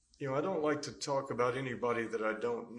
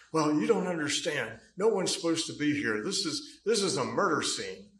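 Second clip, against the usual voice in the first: higher, louder imitated shout; retold yelling; 5 semitones higher, 8 dB louder than usual. Scott yelling it's a murder scene, loud imitated shout. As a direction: snap back that nobody belongs here. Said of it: "he was screaming".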